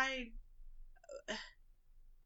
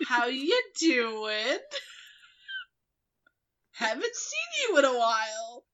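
shocked small talk; 5 dB louder than usual. Acted. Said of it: "kind of shocked".

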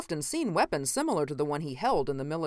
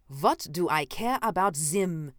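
1 snapped; 2 semitones higher than usual. A narrator's reading. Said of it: "snapped Harbauer".

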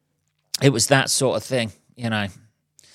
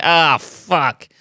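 mock dismay; 5 semitones higher, 6 dB louder than usual. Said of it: "You're like".

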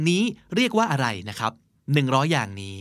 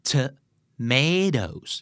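"Tomatoes" drawn out very slowly, syllable by syllable; very slow demo; much slower than usual. Shown as a demonstration. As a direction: stretch "Tomatoes" out for the learner to copy. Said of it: "ออกเสียงตามสำเนียงอเมริกันว่า". (พูด "Tomatoes" ช้ามากทีละพยางค์)

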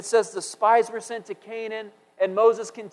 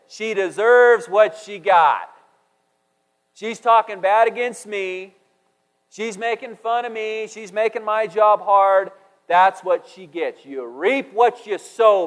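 mock indignant Moses; 4 dB louder, slower than usual. Moses voiced rebuking Miriam.

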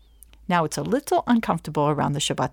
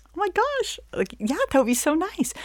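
high, breathless delight, much higher; gushing guest; 11 semitones higher than usual. Retold or imitated. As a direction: squeal with flattered excitement. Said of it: "And you're like".

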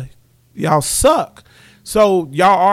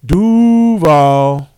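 hype shout; 8 dB louder than usual. Real, not acted. Hyping the hometown.

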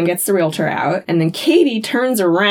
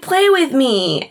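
put-on slow, higher child's plea; changeling child; 5 semitones higher, slower than usual. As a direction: lightly voice a creepy little boy. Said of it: "Changeling Ben is like".

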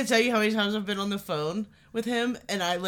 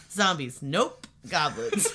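imitating her again; 3 semitones lower, slower than usual. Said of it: "just the way you said it".

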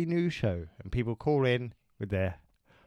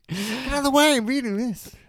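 high, raised, impatient shout; mock road-rage call; 11 semitones higher, 4 dB louder than usual. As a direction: call out as if annoyed at traffic. Acting a driver reading at wheel.

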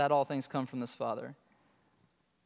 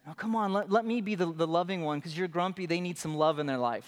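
mock coaxing Son; faster than usual. Son coaxing a grumpy father.

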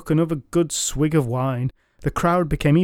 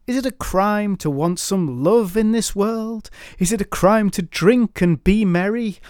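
put-on drunken toast; 6 semitones higher than usual. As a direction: raise the glass and carouse. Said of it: "highly intoxicated Moore".

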